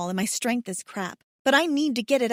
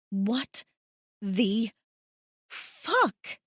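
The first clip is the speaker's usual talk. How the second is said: shocked; much slower than usual. A narrator's reading. Shocked by a kiss.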